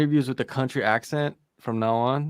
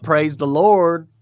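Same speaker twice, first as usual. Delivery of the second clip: slow stretched quote; 3 semitones higher, 7 dB louder, much slower than usual. Pretend. Quoting tattoo slowly, stretched.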